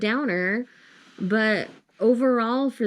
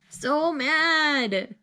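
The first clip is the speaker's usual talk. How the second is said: drawn-out, higher wail of annoyance; mad; 4 semitones higher than usual. Real, not acted. Reader venting about the ending, mad whine. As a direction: stretch it into an exasperated whine.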